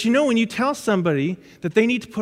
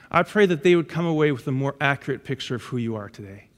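soft, lower, hushed prayer; 6 semitones lower, 4 dB quieter than usual. Real, not acted. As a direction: pray gently over the congregation. Opens service with prayer.

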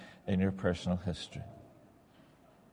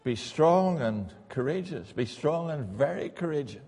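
sincere admission; 4 semitones higher than usual. Real, not acted. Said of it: "And I'm scared".

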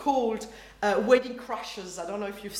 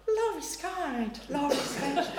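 reading from the lectern; 3 semitones higher than usual. Retold or imitated. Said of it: "Gloria from the lectern".

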